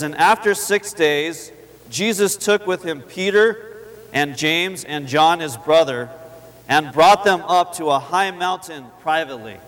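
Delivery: slow, solemn reading of the verse; scripture reading. Acted. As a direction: read it like holy words, slowly.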